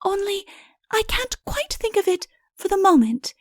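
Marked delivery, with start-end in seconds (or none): 0.0-0.5 musing whisper. Acted. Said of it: "wrinkling her forehead".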